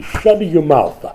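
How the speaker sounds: slow mock-Italian scolding; Italian accent. God's answer in a joke translation, mock Italian accent. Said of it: "doing the Italian translation".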